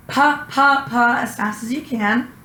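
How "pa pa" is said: short crisp "pa, pa" syllables; saying pa. Shown as a demonstration. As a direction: model "pa, pa" as quick popped syllables. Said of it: "I'm gonna ask you to say".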